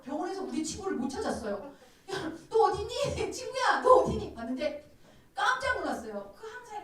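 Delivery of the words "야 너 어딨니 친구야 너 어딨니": high, loud comic holler; calling out, searching. Retold or imitated. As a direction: imitate friends shouting for someone lost. Searching hospital for a friend. (친구를 찾듯 크고 높게 외치기)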